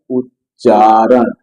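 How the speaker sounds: उच्चारण broken after "uch", long "chaa"; demonstrated pronunciation. Shown as a demonstration. Teacher gives the Hindi term to students, careful pronunciation. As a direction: say उच्चारण slowly, split as uch-chaa-ran. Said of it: "इसको हम बोलते हैं".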